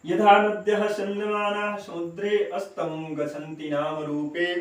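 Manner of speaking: measured chanting of the whole shloka; slow verse recitation. Shown as a demonstration. Teacher models full recitation for students, slow chant. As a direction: recite the verse slowly and clearly. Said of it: "ऐसे करके आप इसका उच्चारण करेंगे".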